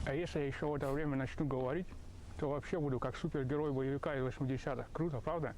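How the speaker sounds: talking around a pen in mouth; pen in teeth. Real, not acted. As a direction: speak with a pen clenched between teeth. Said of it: "С ручкой во рту".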